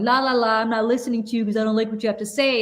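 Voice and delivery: lightly voiced bratty toddler, fast; a hint of a toddler plugging his ears; mock toddler. Mocking Scott as a toddler covering his ears, fast and light. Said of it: "like a three-year-old going".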